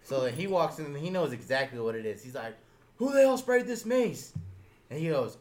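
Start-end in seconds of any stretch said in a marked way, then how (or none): 3.0-4.3 high, loud, fast demand; hammed-up outraged yell; mock angry shout. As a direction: bellow it like a furious officer. Acts Gunny demanding the culprit.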